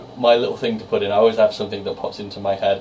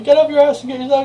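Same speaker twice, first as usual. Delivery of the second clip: high, shrill-free mock kid yell at a much higher pitch; imitating a screaming kid; 5 dB louder, faster than usual. Imitating the boy screaming at his mum for chocolate milk, high and loud. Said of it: "he said".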